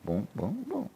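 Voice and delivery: understated spoken sound effect; soft imitated booms. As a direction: mimic quick thuds softly. Imitated noise in retelling.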